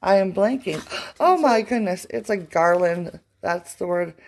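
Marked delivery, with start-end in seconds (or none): 1.2-2.1 sudden loud realization; surprised gasp. Real, not acted. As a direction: gasp as the word comes back. Gasps at remembering the word.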